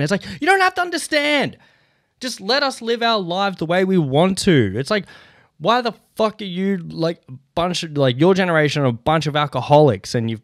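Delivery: amped-up rant. Real, not acted. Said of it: "I'm getting pretty amped up about it".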